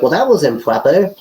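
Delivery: smug, sneering online troll; mock a self-righteous internet commenter. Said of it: "is that the official internet troll voice".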